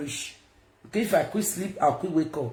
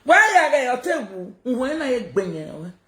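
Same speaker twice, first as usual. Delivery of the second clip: laughing taunt; 4 semitones higher than usual. Real, not acted. Streamer laughing at her rival, mocking giggle.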